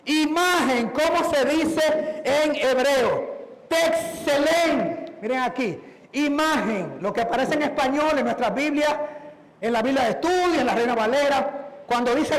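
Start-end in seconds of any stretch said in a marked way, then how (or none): none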